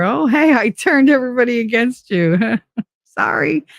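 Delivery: light, high, laughing brush-off; mock breezy apology. Mocking how they come back, breezy and laughing. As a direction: toss off a fake sorry with a laugh.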